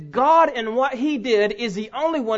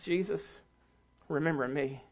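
much softer, low, intimate plea; tender hush; 8 semitones lower, 10 dB quieter than usual. Acted. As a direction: let the plea drop to a soft, lowered hush. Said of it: "And he says".

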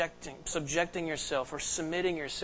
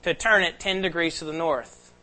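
commanding captain; 7 dB louder than usual. Retold or imitated. Captain giving stern order.

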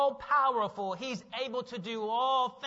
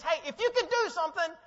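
impatient; 6 semitones higher, 4 dB louder than usual. Retold or imitated. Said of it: "almost like in patience".

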